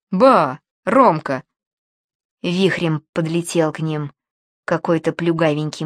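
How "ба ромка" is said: excited hail. Acted. Acquaintance hails Roman loudly.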